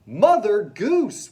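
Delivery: high, loud, slow shout; shouted together. Acted. Kids shouting the part to the principal, gleeful shout. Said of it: "we shouted".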